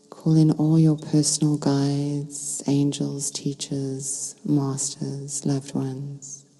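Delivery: calm meditation guide with long pauses between phrases; unhurried, soothing guidance, phrase by phrase; guided meditation. Real, not acted. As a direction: lead listeners gently into stillness, leaving space to breathe.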